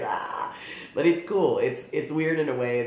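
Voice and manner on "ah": short breathy mock-squirm cry; airy "ah" of being weirded out; playful "ah". Real, not acted. Vlogger squirms at feeling new hair, playful "ah".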